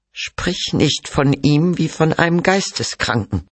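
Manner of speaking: high, hurt protest; indignant rebuke. Acted. Mother rebukes talk of her son, indignant. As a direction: defend him in a high, wounded voice.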